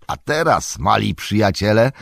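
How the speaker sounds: hearty address, starting high; lifted, lively invitation; jovial Tom Bombadil. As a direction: turn cheerfully to your little friends.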